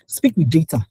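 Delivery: breathy whisper of the key phrase. Shown as a demonstration. Speaker whispering advice to the audience.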